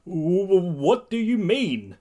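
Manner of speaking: high, halting frightened question; scared stammer. Acted. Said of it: "Ida scarcely says".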